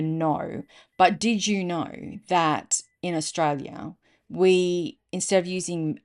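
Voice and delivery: deadpan retold tall tale; measured, matter-of-fact leg-pull. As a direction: deliver it straight, as if it were fact. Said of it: "deadpan, just says to her".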